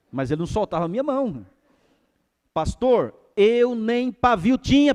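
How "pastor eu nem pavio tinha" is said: loud, high and slow; emphatic admission. Retold or imitated. Strong man confessing his temper to the pastor, slow, loud and high. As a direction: drag it out, loud and earnest.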